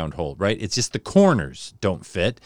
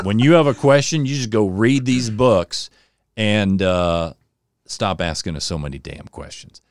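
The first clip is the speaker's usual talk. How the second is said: father's voice; 5 dB louder than usual. Retold or imitated. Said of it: "He said".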